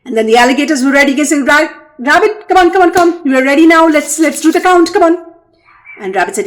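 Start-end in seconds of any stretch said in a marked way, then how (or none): 1.5-5.3 higher, pressing call; eager urging. Acted. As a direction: hurry Rabbit along. Alligators urge Rabbit.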